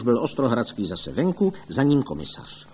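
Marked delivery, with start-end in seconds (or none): none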